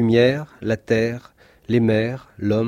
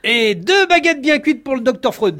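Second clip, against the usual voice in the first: higher, louder, laughing through the words; laughing line; 12 semitones higher, 4 dB louder than usual. Acted. God orders bread for doctor Freud while laughing.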